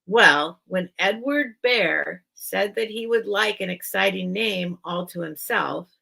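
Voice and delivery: measured storybook reading; story narration. Acted. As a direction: read aloud phrase by phrase, with lilting emphasis. Reads book introduction aloud.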